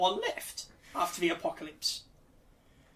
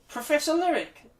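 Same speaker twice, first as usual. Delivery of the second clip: announcer intro; 8 semitones higher, 6 dB louder than usual. Acted. Introducing the segment.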